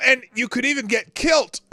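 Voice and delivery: gleeful loud follow-up to the joke; loud comic topper. Acted. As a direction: burst out with the topper. Louder topper after whisper.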